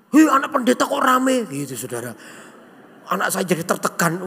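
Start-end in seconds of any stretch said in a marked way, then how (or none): 0.1-1.5 higher, louder imitated taunt; mock jeer at the pastor's kid; mocking schoolmates. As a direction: call it out like a teasing classmate. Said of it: "teman-teman Kenny suka ngolong-ngolokin Kenny".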